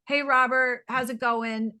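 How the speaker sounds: quick offhand hi on the way past; hurried passing hello. Shown as a demonstration. Showing the guest a careless passing greeting. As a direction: toss it off while walking by. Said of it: "really caring instead of".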